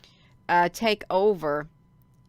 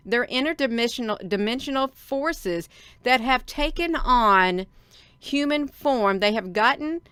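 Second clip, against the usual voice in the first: excited, worked up; 3 semitones higher, 3 dB louder than usual. Real, not acted. Streamer warning viewers of evil forces, excited and emphatic. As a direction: get wound up and drive each phrase home. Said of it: "when I get excited, I, I start talking like this".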